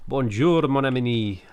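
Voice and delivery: hammed-up French accent; put-on French. Shown as a demonstration. Streamer asked to do French, hammed-up French accent. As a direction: greet a friend in showy French. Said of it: "can I do French?".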